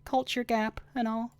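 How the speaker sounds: a shy apology from the sidekick; Maya's voice. Acted.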